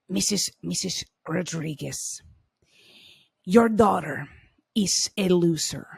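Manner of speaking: a put-on cold teacher voice, partly whispered; nightmare teacher voice. The counselor to mother and daughter in her office, cold and put-on. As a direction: imitate the dreaded teacher who looks down on you. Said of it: "Do, do it with the accent".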